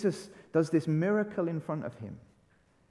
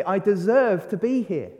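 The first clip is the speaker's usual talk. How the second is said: smug son; 3 semitones higher, 6 dB louder than usual. Retold or imitated. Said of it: "he can rightly sit there and say".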